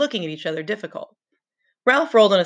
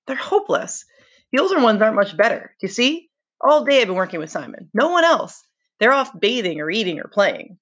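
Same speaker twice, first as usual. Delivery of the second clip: a lightly voiced frustrated boy, pitched higher; Ralph complaining; 4 semitones higher than usual. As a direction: complain with rising exasperation.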